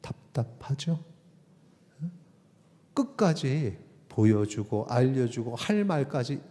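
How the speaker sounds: usual speaking voice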